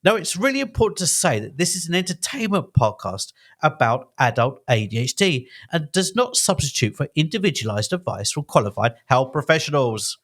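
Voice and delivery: lively announcer-style podcast intro; theatrical script read. Acted. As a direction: perform the welcome with gusto. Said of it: "a Laurence, uh, Olivier performance".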